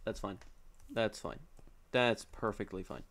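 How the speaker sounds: soft, low self-reassurance; low, subdued acceptance of a loss; quiet resignation. Real, not acted. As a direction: talk yourself down quietly. Consoling himself after losing fight.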